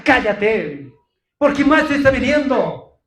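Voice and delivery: loud, scornful shout at the blind man; insulting rebuke. Retold or imitated. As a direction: hurl it at him like an insult. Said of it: "Otros seguramente hayan insultado".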